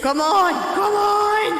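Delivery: effortful straining cry; straining grunt. Acted. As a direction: strain out each word with effort. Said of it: "you sound like you're trying to nut".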